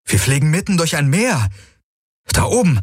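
high-pitched amazed exclamation; exclaiming. A narrator's reading. Pilot points out the sea overhead, exclaiming. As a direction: call it out in amazement, pitch well up. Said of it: "rief er aus".

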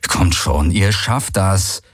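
slow, insistent encouragement; urging. Acted. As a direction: coax them on slowly. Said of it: "an Uru und Ara gerichtet".

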